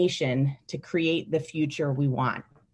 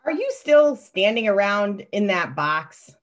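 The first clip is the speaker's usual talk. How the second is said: adult voice; 2 semitones higher, 3 dB louder than usual. Acted. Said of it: "I'm gonna read the adult voice".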